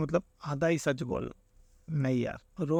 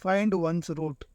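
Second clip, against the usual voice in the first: slowly read; much slower than usual. Shown as a demonstration. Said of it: "चलो option देखते हैं".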